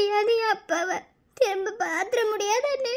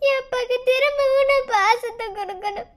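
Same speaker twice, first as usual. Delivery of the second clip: crying; 2 semitones higher, 4 dB louder than usual. Acted. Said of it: "இப்ப எதுக்கு அழுதுகிட்டு இருக்க?".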